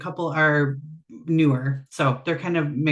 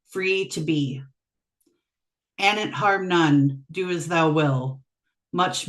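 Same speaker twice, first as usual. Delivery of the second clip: measured recitation of a poem; poetry reading. Acted. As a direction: read it in deliberate phrases with pauses. Guest reads second poem.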